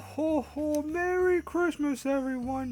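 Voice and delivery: jolly high Santa, slow and booming. Acted. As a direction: play a hearty Santa Claus. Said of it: "I'm gonna stop doing that voice".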